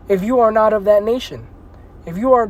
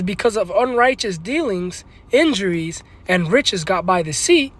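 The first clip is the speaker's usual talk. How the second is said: measured reading of Sirach; scripture reading. Acted. Preacher reading Sirach to his listeners, measured. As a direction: read the verse with care.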